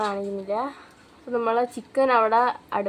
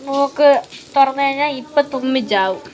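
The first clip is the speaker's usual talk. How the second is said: talking with nose pinched shut; pinching nose; 2 semitones higher, 3 dB louder than usual. Real, not acted. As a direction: speak holding your nose closed. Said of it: "മൂക്ക് പൊത്തിന്നാണ് സംസാരിക്കുന്നത്".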